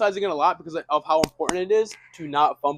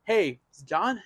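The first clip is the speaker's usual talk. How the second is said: questioning hello; 2 semitones higher, much slower than usual. Shown as a demonstration. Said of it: "You can do this by saying".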